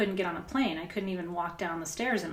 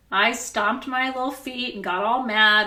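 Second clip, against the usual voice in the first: mock tantrum; 3 semitones higher, 7 dB louder than usual.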